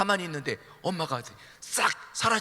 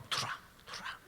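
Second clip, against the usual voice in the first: hissed threat; 11 semitones lower, 8 dB quieter than usual. Acted. Mother's muttered threat.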